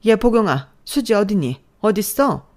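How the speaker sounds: loud, high calling out for her daughter; furious mother storming in; shouting mother-in-law. Acted. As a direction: yell through the house.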